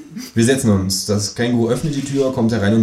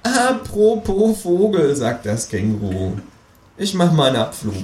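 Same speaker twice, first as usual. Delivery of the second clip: dry kangaroo; 8 semitones higher than usual. Acted. Kangaroo leaving the session, high and dry.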